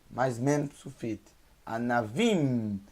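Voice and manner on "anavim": Anavim slowly, lips closing on a hummed M; closed-mouth final M. Shown as a demonstration. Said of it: "fecha a boca no final".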